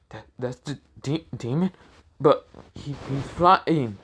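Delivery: halting, disbelieving villager; stunned stammer. Acted. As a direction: stumble over the words in mild shock. Stunned villagers hear the demon's name.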